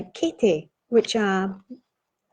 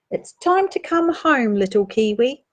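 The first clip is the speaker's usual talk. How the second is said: calling out; 2 semitones higher than usual. Acted. Reading aloud, calling little kiwi home.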